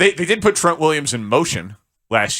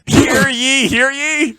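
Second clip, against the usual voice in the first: high, sung-out olde herald cry; town crier; 11 semitones higher, much slower than usual. Shown as a demonstration. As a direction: ring it out like a crier in the square. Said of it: "you can do it again after I do this".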